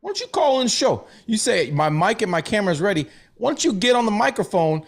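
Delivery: lightly voiced old Jewish guy; a hint of an old New York Jewish accent. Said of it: "That's my old Jewish voice".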